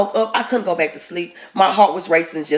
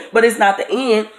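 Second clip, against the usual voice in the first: laughing, higher pitched protest; laughing disbelief; 3 semitones higher than usual. Retold or imitated.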